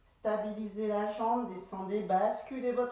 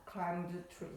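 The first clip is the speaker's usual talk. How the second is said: English with a French accent; 3 semitones lower, 5 dB quieter than usual. Real, not acted. Instructor translating the exercise name, French-accented English. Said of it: "rire de mon accent anglais".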